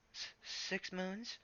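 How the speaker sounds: slow, unsure, hesitant; stammering. A narrator's reading. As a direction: stumble out the answer nervously. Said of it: "he stammered".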